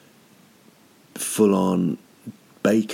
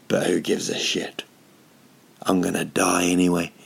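whispered shrug. Retold or imitated. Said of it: "picked them back up and went".

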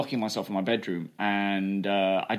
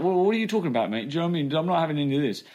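higher, indignant British bloke voice, as in his stand-up routine; offended Brit routine; 5 semitones higher, much faster than usual. Retold or imitated. Doing his routine to the interviewer, mock-offended British bloke voice. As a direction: play a mock-offended Brit who won't have it. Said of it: "I turned it into a, like, a, a small routine".

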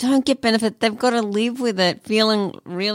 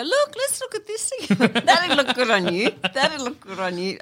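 mock hairdresser-book voice; 3 semitones higher than usual.

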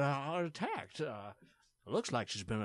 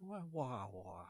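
breathy whispered awe; whispered wow; 8 dB quieter, slower than usual. Acted. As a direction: whisper it in shock. Whispered astonishment.

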